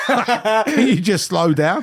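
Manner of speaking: imitated slow request. Host mimicking puzzled Americans, slow mock plea. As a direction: drag it out as a laughing imitation. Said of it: "they always go".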